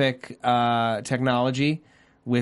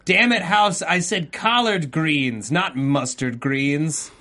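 mock scolding; 2 semitones higher, slower than usual. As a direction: berate the dumb house in slow mock anger. Scolding a smart house, pretend.

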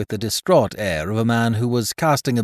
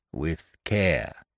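gruff carrier John. Acted. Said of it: "returned the carrier".

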